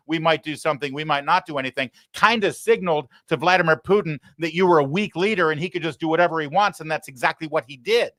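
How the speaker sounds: high-pitched, rushing tirade; frantic rant. Real, not acted. Host ranting at Biden over Ukraine, frantic and high. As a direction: pile it on, fired up and breathless. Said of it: "He didn't have to say it quite as frantically as I did".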